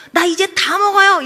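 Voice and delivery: high, loud retold burst of good news; excited announcement. Healed woman phoning her helper, excited announcement. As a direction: burst out with the happy report.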